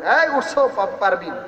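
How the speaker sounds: a hammed-up call through the door; mock yell. Husband yells at the door to wake his wife, mock yell. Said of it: "জোরে যখন চিৎকার মারছে".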